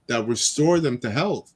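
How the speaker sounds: slow, solemn Bible reading; scripture reading. Acted. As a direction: read it like scripture. Reads scripture aloud.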